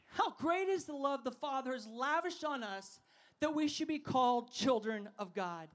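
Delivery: steady reading of the verse again; scripture reading. Real, not acted. Preacher rereading the verse to the crowd. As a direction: read it with care. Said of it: "Say lavished".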